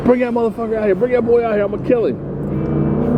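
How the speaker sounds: imitating a drunk yelling from outside; retold screaming threat. Retelling Darren yelling outside the bar, mock holler. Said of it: "He's out here screaming and hollering my name".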